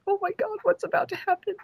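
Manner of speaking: very high, panicky retold squeal; freaking out. Cosplayer retelling a weight on her shoulders, freaking out. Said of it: "I'm freaking out".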